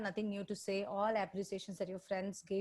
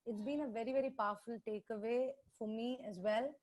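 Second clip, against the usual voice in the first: barely audible; 5 dB quieter than usual. Real, not acted. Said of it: "we can't hear you".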